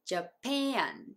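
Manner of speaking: "ジャパン" as English Japan, "ja-PEH-an"; native pronunciation. Shown as a demonstration. Teacher showing the second A, "ジャパン" as "ja-peh-an". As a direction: stretch the second vowel of "ジャパン" into "eh-an". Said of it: "ジャパンの二番目のAも".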